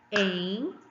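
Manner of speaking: Entrevista one syllable at a time, weight on VIS; showing stressed syllable. Shown as a demonstration. Teacher asking which is strongest, Entrevista by syllables, VIS stressed. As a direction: separate en, tre, VIS, ta in Entrevista, hitting VIS. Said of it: "Qual que é a sílaba mais forte".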